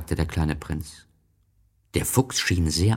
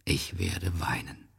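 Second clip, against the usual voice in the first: soft, subdued sadness; understated grief, dropped in volume; tearful farewell; 5 dB quieter than usual. Acted. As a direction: say it quietly, close to sorrow. Fox grieving at parting.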